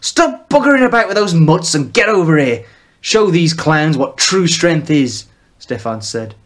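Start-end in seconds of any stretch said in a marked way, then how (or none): 0.0-5.2 loud, higher bark of orders; father orders Magna over, loud; commanding father. Acted.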